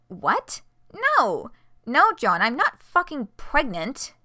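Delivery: loud, furious denial; angry. Acted. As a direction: shout it back, outraged. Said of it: "Her face is wide-eyed and angry".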